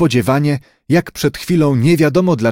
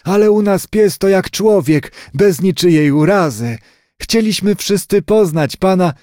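higher-pitched granny voice; an earnest grandmother explaining herself in a raised pitch; 5 semitones higher than usual. Acted.

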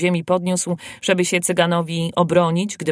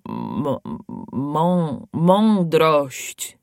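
babbling stammer; 2 semitones lower, much slower than usual. A narrator's reading. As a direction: stutter toward the word in fear. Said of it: "wybełkotał koszałek opałek". (trwożliwy bełkot)

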